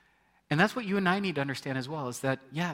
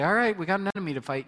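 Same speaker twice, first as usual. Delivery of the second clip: brash soldier; 5 semitones higher, 4 dB louder, faster than usual. Retold or imitated. Soldier charging into battle carelessly.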